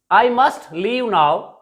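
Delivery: "must" leaned on, slow and deliberate; I must leave now said slowly with weight on "must"; insisting to yourself, slow; firm must, slowly. Shown as a demonstration. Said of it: "I insist, insist myself".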